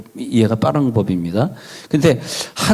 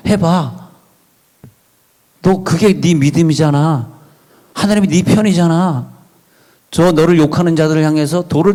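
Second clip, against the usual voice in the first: raised-pitch mock devil, urging and flattering; devil's tempting voice; 4 semitones higher than usual. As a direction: egg the listener on in a higher voice. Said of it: "마귀는 그렇게 말을 해요".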